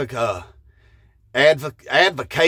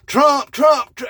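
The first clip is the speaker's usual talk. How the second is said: loud, high excited chant of Trump; cheering as the new Pope rolls out; 10 semitones higher, 4 dB louder, slower than usual. Retold or imitated. Fan cheering the new Pope, higher and louder, excited. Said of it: "and I was like".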